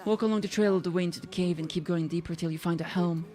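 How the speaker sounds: lightly voiced country villager. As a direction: give directions like a weary local. Voicing villager.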